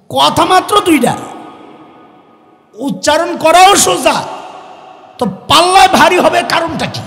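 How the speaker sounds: loud, high rhetorical challenge; fiery rhetorical question. Real, not acted. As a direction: press the question on the crowd. Voicing the listener's puzzled question.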